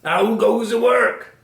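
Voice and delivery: high, loud, drawn-out farmer's call. A narrator's reading. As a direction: call out slowly as the lazy farmer. Farmer's repeated call in story.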